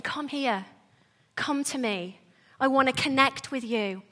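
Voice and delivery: softly coaxing, like a good parent; gentle, quiet invitation to come close; tender parent. Acted. Good parent down on the floor to a child, tender. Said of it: "this image of a really good parent".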